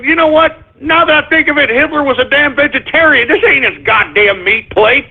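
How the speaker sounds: indignant call-out. Retold or imitated. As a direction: catch him in the lie. Calling out the seller's lie.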